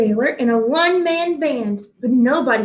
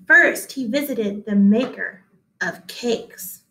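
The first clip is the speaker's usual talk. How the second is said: put-on gentle read-aloud to children; story reading; slower than usual. A narrator's reading. Teacher reading a picture book to her class, in a gentle storybook voice.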